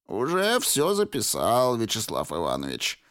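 put-on creaky old man's voice. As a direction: croak it out like an old clerk. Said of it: "проскрипел старик".

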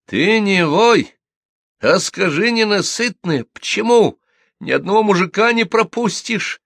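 high, loud berating; aggressive scolding. A narrator's reading. Widow advances on crying rival, fists flying, scolding. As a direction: hammer her with accusations. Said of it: "Размахивая кулаками, наступала на неё".

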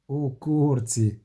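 slow, breathless gasping words; out of breath. Acted. Alex back from running through the ship, breathless. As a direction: get it out between breaths. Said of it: "задихано пояснив він".

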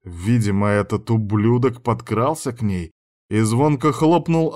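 ordinary delivery, nothing marked

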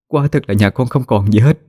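pleading. Acted. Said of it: "mà giọng cầu xin".

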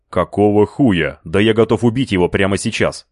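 a raging, outraged cry; angry outburst. A narrator's reading. Hira raging at the new recruit, angry outburst. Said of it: "вскрикнул Хира".

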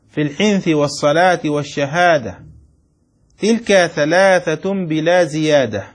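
يملي البيت ببطء كلمة كلمة; أملِ على الطلاب بتأنٍّ ليكتبوا; إملاء بطيء. Shown as a demonstration. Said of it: "أملي عليكم؟". (إملاء بطيء متأنٍّ للطلاب)

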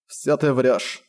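a sullen grumble in a changed voice; sulky young man grumbling; grumbled. A narrator's reading. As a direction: mutter it without looking up. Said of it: "буркнул он".

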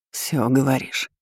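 a quiet smirk in the voice. A narrator's reading. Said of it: "усмехнулся голос". (усмехаясь)

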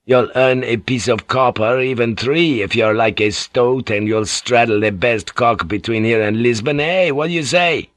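a lightly voiced rough sailor, leering and coaxing; leering boatswain. Boatswain propositioning Mariko behind the samurai's back, leering and coaxing. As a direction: sidle up and coax her crudely.

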